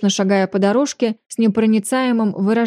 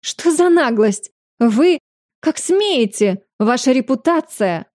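higher, slow, spluttering outrage; choking with outrage; 4 semitones higher, slower than usual. Acted. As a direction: sputter out each word, indignant. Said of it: "Задыхаясь возмущением".

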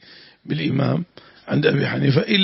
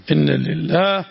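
earnest prayer aloud in a sustained tone; supplication; 2 semitones higher than usual. Real, not acted. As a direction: lead the listeners in a plea to God. Teacher breaks into supplication.

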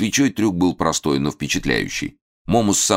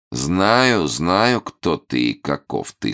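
sly, menacing sneer; unkind smirk; 2 semitones higher, much slower than usual. Acted. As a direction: sneer it with a knowing grin. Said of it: "с недоброй усмешкой".

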